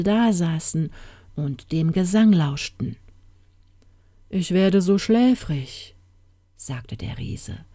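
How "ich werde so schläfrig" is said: slow, drowsy giant voice; drawn-out, as if nodding off; lulled and heavy with sleep; sleepy giant. Acted.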